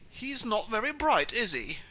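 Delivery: loud, high-starting fatherly put-down; lightly acted vampire dad; dad's aside. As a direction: remark on the boyfriend to his daughter. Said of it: "Voltar Reigns goes".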